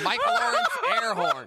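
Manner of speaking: high blaring air horn voice; air horn imitation. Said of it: "loading up Mike Lawrence's sound effects".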